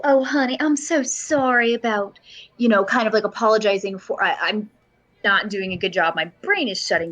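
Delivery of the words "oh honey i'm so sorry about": grandma voice. Acted. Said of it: "I'm grandmaing him really hard".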